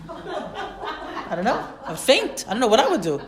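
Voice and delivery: laughing through the words. Real, not acted. Teacher joking she'd faint at a talking donkey, laughing. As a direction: chuckle while admitting it.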